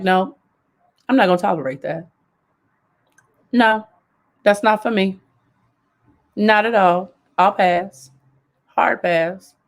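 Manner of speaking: even, unhurried refusal without raising the voice; calm neutral tone. Shown as a demonstration. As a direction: say no firmly but calmly. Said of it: "You can simply use a regular tone".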